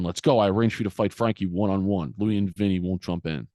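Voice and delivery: imitating a pressing father, a touch of force; insistent retold order. Father ordering son to go fight Frankie, insistent retelling. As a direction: press the order, mildly voiced. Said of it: "And he says it again".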